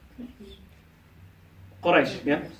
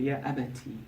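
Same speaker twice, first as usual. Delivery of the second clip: softer, tender address to father; endearing; 6 dB quieter than usual. Shown as a demonstration. Child softly addressing a doubting father, endearing. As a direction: coax your beloved father gently. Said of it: "obviously to be endearing".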